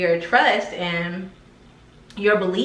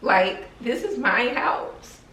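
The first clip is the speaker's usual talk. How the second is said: holding back tears; 4 semitones higher, slower than usual. Real, not acted. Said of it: "I feel like I wanna cry".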